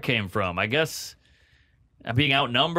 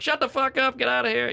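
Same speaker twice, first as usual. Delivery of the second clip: high-pitched mock snapping tirade; acted aggressive outburst, much higher; aggressive dad; 12 semitones higher than usual. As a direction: lash out as the fed-up father. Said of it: "that type of aggressive".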